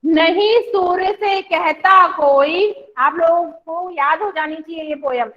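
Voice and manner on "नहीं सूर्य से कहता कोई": slow, sing-song poem reading; teacher leading a class poem reading; poem recitation. Shown as a demonstration. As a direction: recite slowly so the class can follow. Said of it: "एक बार फिर से इसकी reading कर लेते हैं".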